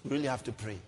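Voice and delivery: low, soft, humming pity; mock resignation. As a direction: imitate helpless churchgoers murmuring concern. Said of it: "that's our mentality".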